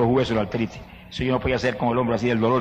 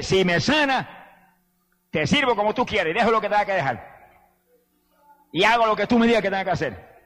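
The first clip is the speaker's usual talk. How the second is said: earnest plea; 6 semitones higher than usual. Retold or imitated. Retold vow to God, pleading.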